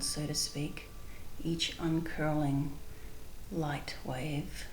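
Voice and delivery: calm, unhurried guided visualization with long pauses; spontaneous meditation leading, measured and spacious. Real, not acted. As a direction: guide listeners gently inward, pausing between phrases.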